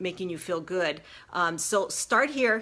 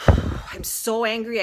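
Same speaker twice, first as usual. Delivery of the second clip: louder, slow "I'm so angry" after a sigh; loud angry venting; 2 semitones higher, 6 dB louder, much slower than usual. Shown as a demonstration. Showing viewers how to vent while tapping, louder and slow.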